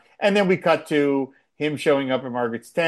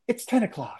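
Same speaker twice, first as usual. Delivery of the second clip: laughing; 9 semitones higher, 5 dB quieter than usual. Retold or imitated. Quoting Margaret, laughing.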